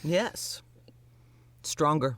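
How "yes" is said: whispering. Real, not acted. Whispered emphatic yes.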